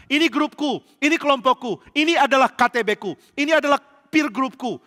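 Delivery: loud, high-pitched mock boasting; possessive clique boast. Preacher mimicking church cliques he dislikes, mock boasting. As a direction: imitate cliquish members staking their claim.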